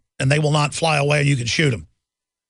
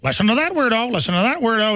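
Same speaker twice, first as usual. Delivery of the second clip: lightly put-on parrot voice, a bit higher; parrot imitation; 4 semitones higher, faster than usual. Host imitates domesticated people as chickens, lightly parroting. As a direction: squawk it lightly like a mocking parrot. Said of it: "It's more like a parrot imitation".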